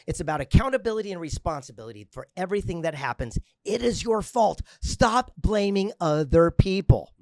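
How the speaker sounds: loud, rising, slowed-down declaration; forceful preaching. Real, not acted. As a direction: hammer the point home. Motivational speech climax.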